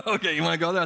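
retold comeback with a laugh in it; wife's laughing comeback. Wife daring her husband to go there, laughing. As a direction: toss it back half laughing, daring him. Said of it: "And she was just like".

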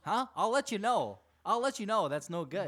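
mock warning with punched repeats; fired up. Fan voices goalie warning a player, fired-up imitation. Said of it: "that's just fired up".

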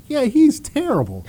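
high, laughing brush-off; laughing mock dismissal. Player laughs off the coach's question about a kid. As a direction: toss it off through a laugh. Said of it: "I was like".

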